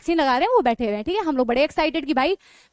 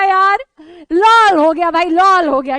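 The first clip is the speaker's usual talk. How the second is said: laughing; 7 dB louder, slower than usual. Real, not acted. Laughing at the friend.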